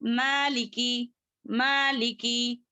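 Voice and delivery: मालिकी with long first vowel, short li and ki; correct short endings. Shown as a demonstration. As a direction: stretch only the maa in मालिकी. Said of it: "इस तरीके से करेंगे".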